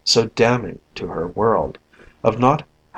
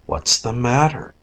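sleepy; 2 semitones higher than usual. Acted. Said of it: "in a sleepy voice".

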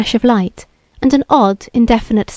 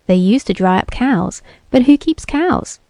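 ominous; 3 semitones higher than usual. Acted. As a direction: lay it on darkly, like a warning. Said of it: "the bearded one said ominously".

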